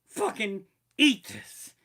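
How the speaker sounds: loud pleading warning; mock yell to the visiting chef. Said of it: "I would warn him".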